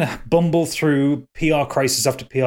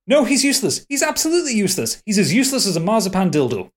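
Malcolm Tucker; 6 semitones higher than usual. Acted. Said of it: "Malcolm Tucker is angry".

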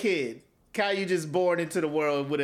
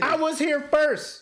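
put-on high, slow whining child; whiny kid; 9 semitones higher, 3 dB louder, slower than usual. Caillou complaining to dad, high slow whine. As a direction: drag it out like a sulking four-year-old.

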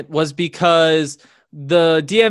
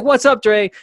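higher, louder friendly hello; eager greeting; 6 semitones higher, 3 dB louder than usual. Retold or imitated. The speaker retelling greeting his hero on the phone, eager hello. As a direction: greet your hero eagerly. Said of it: "I was like".

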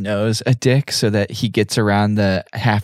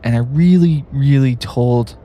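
raised, exasperated I-told-you-so; exasperated scolding; 4 semitones higher, 4 dB louder, slower than usual. Acted. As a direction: scold the group, stretching out the words. Acted scene, scolding the others for lateness.

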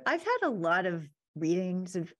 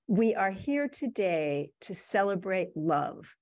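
Shakespearean trained voice. Retold or imitated. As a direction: lightly imitate a classically trained stage actor, drawing out the words. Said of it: "saying in his Shakespearean trained voice".

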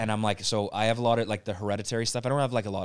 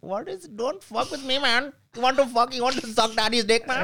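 hammed-up Middle Eastern accent, rising much higher toward the end; Middle Eastern accent impression; 8 semitones higher than usual. Comic imitating a Middle Eastern accent, as a kid copying Russell Peters. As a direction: do a cartoonish Middle Eastern accent, pushing it up high. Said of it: "I would talk, like".

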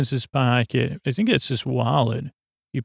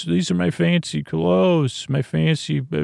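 higher-pitched retold complaint; mock protest; 4 semitones higher than usual. Character objecting about fancy clothes, mock higher voice. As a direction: imitate a character fussing, pitched up.

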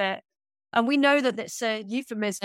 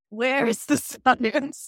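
laughing; 3 semitones higher, slower than usual. Real, not acted. Laughing rhetorical question.

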